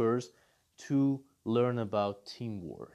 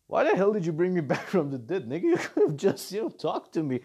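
mock annoyed master; 3 semitones higher, 4 dB louder, faster than usual. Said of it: "revived master scolds Jiren".

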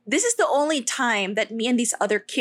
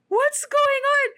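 put-on bewildered child; 13 semitones higher, 3 dB louder than usual. Child confused by Santa running.

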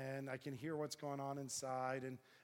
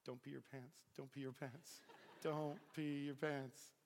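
trembling self-talk. Retold or imitated. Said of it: "I'm, like, trembling".

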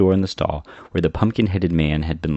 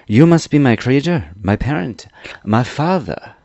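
higher, louder dawning surprise; surprised; 6 semitones higher, 5 dB louder than usual. A narrator's reading. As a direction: marvel step by step at each title. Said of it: "in a tone that expressed surprise".

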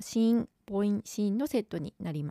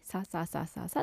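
soft, low, even string of "sa"; lower, softer run of identical syllables; imitating monotone Japanese; 3 semitones lower, 6 dB quieter than usual. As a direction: mimic monotonous speech as sa-sa-sa, quietly. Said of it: "っていう感じだと言われた".

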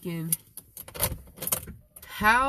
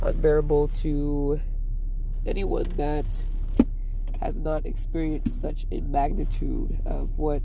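solemn musing. Real, not acted. Vlogger describing love to viewers, solemn and halting. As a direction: weigh each phrase like improvised poetry.

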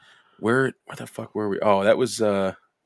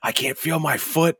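high-pitched imitation of a giggly stoner; mock helpless complaint, pitched up; laughing friend; 8 semitones higher than usual. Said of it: "And then Ty starts laughing".

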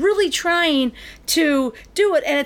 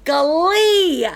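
higher, drawn-out incredulous cry; incredulous exclamation; 5 semitones higher, 4 dB louder than usual. Real, not acted. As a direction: stretch the name in disbelief. Repeats the show's name in disbelief.

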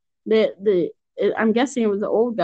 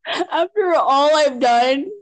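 slow, higher, drawn-out mock outrage; mock indignation; 5 semitones higher, slower than usual. One co-host guilt-tripping the other, mock indignant. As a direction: play up being wronged. Mock quarrel between co-hosts.

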